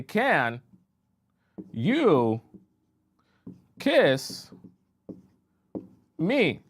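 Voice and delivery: a woman asking her date, drawn out and rising up high; slow hopeful ask. Acted. Woman on a date asking for a kiss, slow and hopeful. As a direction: stretch each word, pleading for the kiss.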